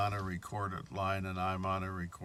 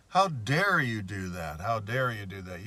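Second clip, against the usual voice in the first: imitating the banker snapping, louder on the first how dare you; retold outburst; 5 dB louder than usual. Banker losing it at caller over recording. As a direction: re-enact his angry how-dare-you. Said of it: "He just lost it".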